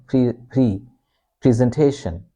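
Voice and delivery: "pre" as PREE, then "presentation" as PREE-zen-TAY-shun; long double-E sound in "pre". Shown as a demonstration. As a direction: stretch the EE opening "presentation". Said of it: "It's a long sound".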